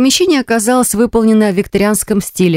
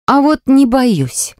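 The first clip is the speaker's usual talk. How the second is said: defiant; 6 semitones higher, much slower than usual. Acted. Defiant reply to dare.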